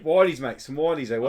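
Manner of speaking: hammed Aussie bloke; mock Australian accent. Naming the sharks to his mate, mock Australian. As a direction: play at being Australian. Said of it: "we always do accents".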